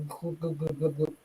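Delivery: low glug-glug gurgle; imitated gurgling guts. Grandmother's saying about guts betraying you, imitated gurgle. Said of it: "they'll go".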